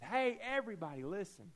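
a high, mock yell calling the whole beach; retold yell. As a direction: call out to everybody, half-playing the guy. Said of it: "And he yelled".

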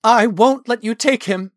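high, loud defiance; defiant authority. A narrator's reading. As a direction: stand up to an elder. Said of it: "mustering every bit of authority he could".

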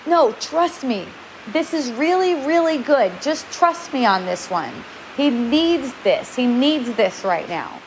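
slow, steady, reassuring to husband; calm him down, slowly; calm reassurance. Retold or imitated. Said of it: "And I go".

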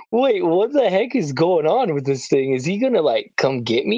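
mild mock fear at a horse; retold alarm. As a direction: imitate your nervous younger self. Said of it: "I'm like".

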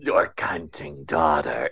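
low, slow campy drag queen voice. Retold or imitated. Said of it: "She sounds like a drag queen".

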